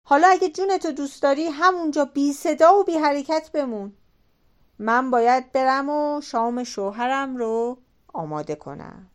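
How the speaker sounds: quick, high, pressing hush-up warning; urgent warning. Acted. Wife warns the hiding man, fast and urgent. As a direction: rush him into hiding, urgently.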